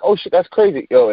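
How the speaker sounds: mock shocked viewer; surprised. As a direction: react like you can't believe it. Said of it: "And I'm like".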